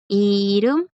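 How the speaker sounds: "Irum" with the R sounded before the U; R before vowel. Shown as a demonstration. Teacher models the Korean word for name, "Irum" with tapped R. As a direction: say "Irum" slowly with a tapped R, rising at the end. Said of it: "la vocal que a ella le sigue acá que le permite sonar".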